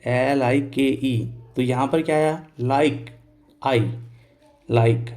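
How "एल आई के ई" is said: spelling out. Shown as a demonstration. Teacher spells out the word.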